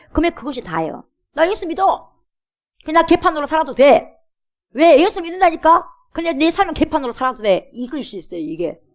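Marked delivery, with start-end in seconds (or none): 1.3-5.0 high, loud, defiant boast; brazen careless believer. Acted. Mocking a careless believer's claim. 5.0-7.7 high, loud, defiant boast; brazen careless believer. Acted. Mocking a careless believer's claim.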